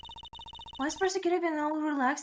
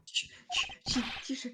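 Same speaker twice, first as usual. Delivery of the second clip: whispering; 8 dB quieter, faster than usual. Real, not acted. Hushing for a tissue.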